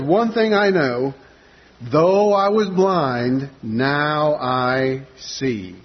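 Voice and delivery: slow, drawn-out, emphatic declaration with a touch of frustration; mildly frustrated insistence. Acted. Healed blind man answering the religious leaders' repeated quizzing, slow and mildly frustrated. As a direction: spell it out slowly, as if tired of being questioned. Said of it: "almost hear the frustration in his voice".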